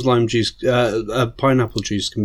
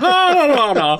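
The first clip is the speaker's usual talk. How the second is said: laughing lilt; 12 semitones higher than usual. Pretend. Skipping leprechaun, laughing.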